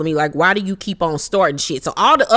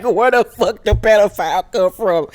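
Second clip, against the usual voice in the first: mock disbelief. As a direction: toss it out like nobody can believe it. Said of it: "everybody like".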